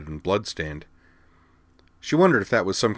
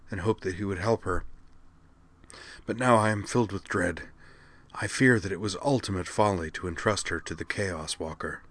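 put-on weary old mage; 4 dB quieter than usual. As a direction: speak like a worn-out wise mage. Mage explains.

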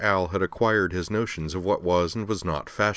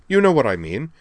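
exasperated; 7 semitones higher, 3 dB louder than usual. Acted. Daughter scolds father over danger.

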